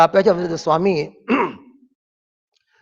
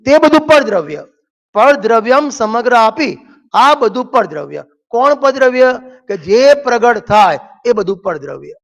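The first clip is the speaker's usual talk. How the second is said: rising, louder sermon voice pressing each point home; forceful preaching; 4 semitones higher, 4 dB louder than usual. Acted. Preacher hammering his point to the congregation, forceful and louder.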